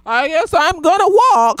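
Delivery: giggling retake of the line; laughing repeat. Real, not acted. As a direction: crack up while saying it.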